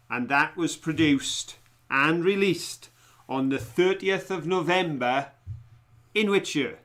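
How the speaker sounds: measured quizmaster delivery, pausing between phrases; quiz question read-out. Real, not acted. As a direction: put the question to the room, phrase by phrase. Reads quiz question aloud.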